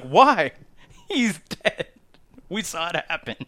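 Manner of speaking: high-pitched mock incredulity; hammed-up baffled protest; Roman's disbelief. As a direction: question it as if it's absurd. Roman acted, disbelieving, retold.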